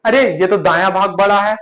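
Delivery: a restrained mock outcry; mild shouted protest. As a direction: protest aloud, stopping short of yelling. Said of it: "चिल्ला कर कहती".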